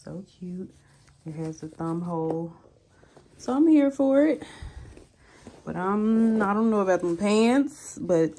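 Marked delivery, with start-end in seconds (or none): 0.0-2.5 breathy little whisper to herself; whispered aside. Real, not acted. Vlogger whispering to viewers about the cute top. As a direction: whisper it, almost secretly pleased.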